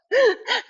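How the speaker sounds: high breathless burst of laughter. Real, not acted. Instructor out of breath, bursting into high laughter. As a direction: let a winded laugh escape. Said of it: "I'm out of breath".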